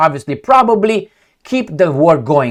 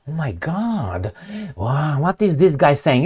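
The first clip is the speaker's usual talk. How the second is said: mock Russian reaction; 3 semitones lower, 8 dB quieter, slower than usual. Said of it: "the Russians are like".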